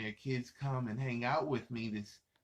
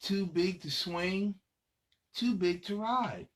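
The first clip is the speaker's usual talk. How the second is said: sing-song refrain; 7 semitones higher, slower than usual. Acted. Repeated refrain read to kids.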